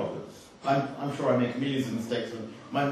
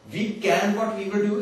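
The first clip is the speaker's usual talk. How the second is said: put-on slow and higher, South Asian-accented quote; South Asian English accent; 6 semitones higher, 3 dB louder than usual. Speaker mocking a garbled revelation, slow South Asian accent. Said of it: "doesn't sound too bad with the accent".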